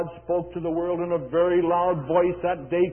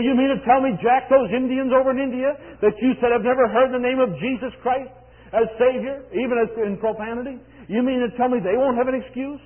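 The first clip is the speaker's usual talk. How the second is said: raised, higher questioning voice; incredulous challenge; 8 semitones higher, 9 dB louder than usual. Retold or imitated. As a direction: challenge it as if you can't believe it. Voices people challenging the preacher.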